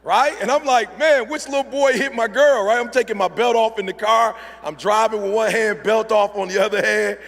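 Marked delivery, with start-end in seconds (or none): 1.0-7.2 high, loud comic outrage; retold fatherly fury, hammed up; riled-up protective dad. Dad driving to find who hit his girl, mock angry.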